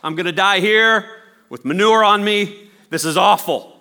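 high, loud, hysterical wailing; hysterical bird. Acted. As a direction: whine in horror at the manure. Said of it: "The bird's like".

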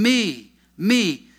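each "me" isolated and stretched; emphasis on "me". Shown as a demonstration. Preacher stressing Paul's personal pronoun, emphatic. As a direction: punch "me", pause, punch "me". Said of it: "emphasis, personal pronoun".

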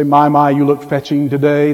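dry, understated sarcastic compliment; low, lightly mocking admiration. Husband to wife in curlers, understated sarcasm. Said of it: "that's sarcasm".

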